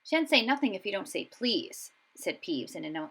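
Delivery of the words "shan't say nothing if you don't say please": annoying teasing lilt; sing-song voice. Acted. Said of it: "annoying sing-song voice".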